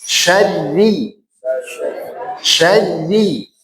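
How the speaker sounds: SYARRI with a thin, light ra; thinner syarri. Shown as a demonstration. Teacher corrects the class, Syarri said thin. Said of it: "kurang tipis".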